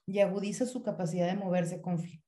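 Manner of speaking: words catching in the throat; choking on a drink. Real, not acted. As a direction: voice choking mid-word. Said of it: "me ahogué".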